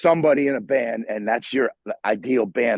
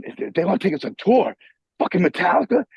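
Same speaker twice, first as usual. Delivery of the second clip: higher-pitched, incredulous question; retold astonishment; 6 semitones higher than usual. Musician hearing of the tour offer, incredulous. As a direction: act out stunned disbelief at the news. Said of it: "I pretty much dropped the phone".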